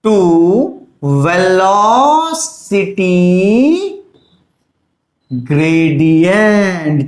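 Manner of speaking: very slow, word by word dictation. Shown as a demonstration. Teacher dictating the law to students, very slow with long pauses. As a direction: spell it out for students to write down. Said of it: "dictating the law slowly for notes".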